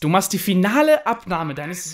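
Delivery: put-on grumpy old man. Grumpy elder scolds video check.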